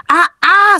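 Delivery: two high startled "ah"s; frightened cries. A narrator's reading. Player begs the lady to stay back, frightened cries. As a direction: cry out high, mildly frightened. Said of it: "entre risas y gritos".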